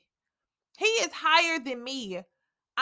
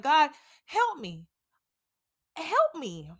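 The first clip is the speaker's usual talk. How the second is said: sincere plea. Retold or imitated. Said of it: "being sincere about it".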